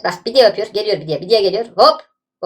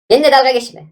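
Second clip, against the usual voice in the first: louder and higher scolding of the game; real irritation rising on benimle; annoyed scolding; 4 semitones higher, 5 dB louder than usual. Real, not acted. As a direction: tell the game off for mocking you. Yelling at the game wheel.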